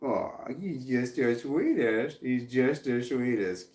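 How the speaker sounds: soft, slow, doting; tender. Real, not acted. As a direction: coo lovingly. Adoring pet aside.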